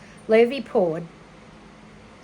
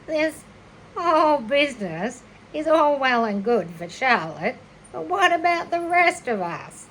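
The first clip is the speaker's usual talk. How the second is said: a lightly voiced complaining lamb; 3 semitones higher than usual. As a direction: bleat out the complaint. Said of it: "Not a very good voice".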